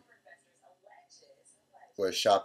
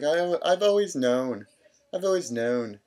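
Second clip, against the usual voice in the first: higher, louder, slow mock mom voice; imitating mom; 9 semitones higher, 7 dB louder than usual. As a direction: draw it out high like a knowing mom. Mom voiced after coming out.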